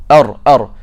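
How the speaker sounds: ar, ar with a quick strike on the gums; tapped Arabic ra. Shown as a demonstration. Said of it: "That's exactly how ra should feel".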